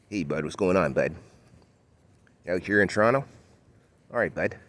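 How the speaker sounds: lightly put-on Toronto "hey bud" accent; a hint of a Toronto bro accent. Torontonian showing an example of the local accent, lightly put on. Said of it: "You got the Toronto accent, like, for example".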